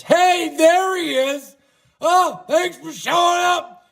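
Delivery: high, slow, mock-sarcastic welcome; teasing greeting. Real, not acted. Host teasing a friend who just showed up, high and drawn out. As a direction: rib the late arrival with a sing-song hello. Greets someone arriving late.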